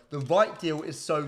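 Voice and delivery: "right" stretched and leaned on in "The right deal is so"; stress on right. Shown as a demonstration. Host stressing the key word for chat, drawn-out "right". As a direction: draw out "right" in "The right deal" slowly. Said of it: "that's a huge word".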